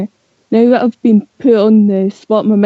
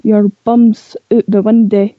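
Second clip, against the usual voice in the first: Scottish saying. Shown as a demonstration. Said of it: "Say it now".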